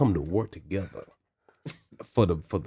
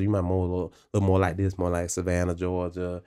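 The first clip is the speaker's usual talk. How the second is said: Southern accent; 2 semitones lower than usual. Shown as a demonstration. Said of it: "I can do a Southern accent".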